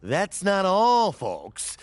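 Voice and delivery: slow, punchy game show host. Acted. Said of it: "I'm gonna sound like a game show host here".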